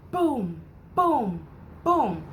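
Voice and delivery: three falling booms; thunder booms. Shown as a demonstration. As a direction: imitate rolling thunder for children. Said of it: "Mister Brown makes thunder".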